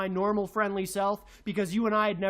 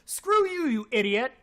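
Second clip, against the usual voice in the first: real rage spiking; angry shout; 3 semitones higher than usual. Real, not acted. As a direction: spit it at him. Angry insult at the critic.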